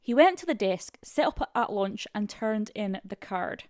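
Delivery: put-on halting, amateur Scottish accent; attempted Scottish accent. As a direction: read it in a rough Scottish accent. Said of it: "My, my friend Molly is Scottish".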